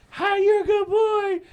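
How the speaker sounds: put-on high, loud squealing baby talk to a dog. Talking to a charging pit bull, loud high baby talk. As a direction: coo at the big dog like a puppy.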